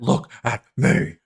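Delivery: slow, drawn-out mock movie-villain line; mock Batman villain. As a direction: stretch "Look at me." out slowly like a cartoon supervillain. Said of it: "Bat-, Batman?".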